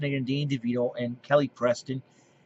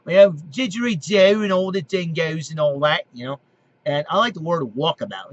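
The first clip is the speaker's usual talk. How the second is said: Australian accent; 3 semitones higher, 4 dB louder than usual. Shown as a demonstration. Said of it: "I talk like Australian like this".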